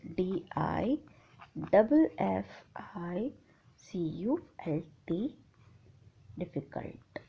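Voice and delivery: spelling drops from soft voice to a whisper; quiet spelling to students that sinks into a whisper; fading to whisper. Real, not acted. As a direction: let the spelling fade out to a breath. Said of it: "ये T है बेटे last में".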